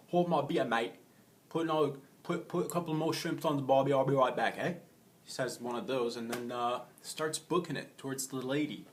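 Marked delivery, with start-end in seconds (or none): 0.1-4.7 loud, higher hammed-up Australian bloke; over-the-top Australian accent, louder; mock Australian. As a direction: shout it like a cocky Aussie surfer. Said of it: "He's Australian".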